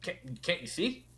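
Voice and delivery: loud, indignant ancient rock creature; grumpy stone guardian. Acted. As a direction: bellow like a roused cave spirit. GM voices the stone face.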